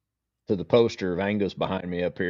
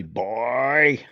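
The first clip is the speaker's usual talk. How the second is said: lightly voiced Tall Man; 3 semitones higher than usual. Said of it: "he got boy every time for Angus".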